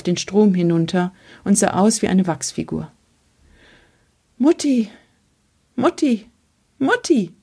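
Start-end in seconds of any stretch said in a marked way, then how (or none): 4.4-7.3 higher cries that build, each call more urgent; shouting louder and louder. A narrator's reading. Boy on the bridge shouting louder and louder for his mother. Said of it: "Nun schrie ich es laut und immer lauter".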